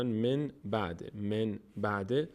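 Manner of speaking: slow, careful reading of من بعد; iqlab demonstration. Shown as a demonstration. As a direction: say من بعد slowly, syllable by syllable. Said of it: "به میم".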